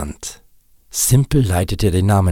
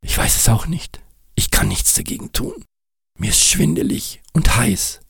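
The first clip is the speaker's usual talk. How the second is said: hoch, gehaucht und fiebrig zitternd; 5 semitones higher than usual. Acted. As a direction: sprich wie vom Fieber geschüttelt. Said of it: "zitterte wie Espenlaub". (kranker Nick zittert vor Fieber)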